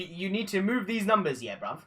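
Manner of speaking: London roadman slang, played up; london roadman accent. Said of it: "turn full on London".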